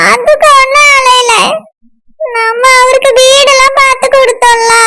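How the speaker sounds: weepy, whining explanation; crying. Acted. Crying girl explains to puzzled friend, tearful. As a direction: explain through acted tears. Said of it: "இப்ப உட்கார்ந்து எதுக்கு அழுதுட்டு இருக்கா".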